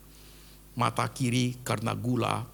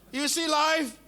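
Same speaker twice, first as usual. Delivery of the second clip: higher, louder closing plea; climactic appeal; 4 dB louder than usual. Real, not acted. Preacher urging the church to take the word home, high and loud. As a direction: lift it to a final cry.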